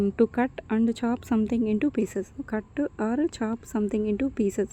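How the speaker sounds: very slow, word by word, for copying; slow dictation. Shown as a demonstration. Teacher dictating a definition to students, very slow. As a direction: spell it out slowly for the class to write. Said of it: "teacher dictates definition slowly".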